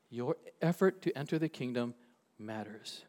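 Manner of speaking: quiet repeat, pause before a low, soft "matters"; measured, hushed weight on "matters" after a pause; solemn emphasis. Real, not acted. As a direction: let "matters" drop low and soft on its own. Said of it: "say this with a lot of emphasis".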